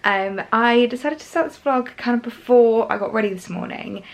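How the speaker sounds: croaky, just-woke-up voice. Real, not acted. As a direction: talk through a croaky morning throat. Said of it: "sorry if I sound, like, a bit croaky".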